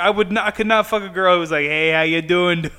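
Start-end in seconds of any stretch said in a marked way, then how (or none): 1.7-2.7 slow mock Boston accent. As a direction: drag out a Boston greeting. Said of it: "Like the Boston accent".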